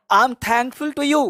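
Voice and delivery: very slow, words drawn out; slow drill prompt. Shown as a demonstration. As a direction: set it up slowly for students to answer. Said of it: "मैं आपको बोल रहा हूँ". (धीरे-धीरे अभ्यास वाक्य)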